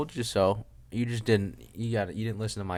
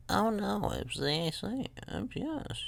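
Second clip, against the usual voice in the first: squeaky high put-on voice, much higher; mock high voice; 12 semitones higher, 5 dB quieter than usual. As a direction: echo yourself in a silly high squeak. Mock high echo of himself.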